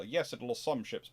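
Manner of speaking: ordinary talk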